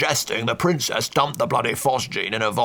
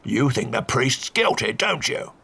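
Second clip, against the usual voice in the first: put-on slow, sneering old Duke; mocking counter-accusation; 3 semitones higher, slower than usual. A narrator's reading. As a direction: turn the blame on the priest.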